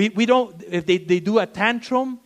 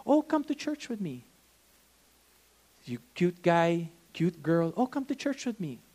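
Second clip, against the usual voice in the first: mock sweet invite; 4 dB quieter than usual.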